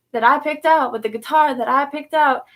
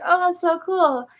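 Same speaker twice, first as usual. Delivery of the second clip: higher, drawn-out wowed reaction; retold awe; 6 semitones higher, slower than usual. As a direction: swoop up admiringly, then stretch it.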